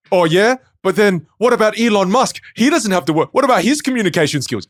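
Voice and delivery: high, loud mocking troll voice. Mocking a troll who comments on his content. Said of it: "where they're like".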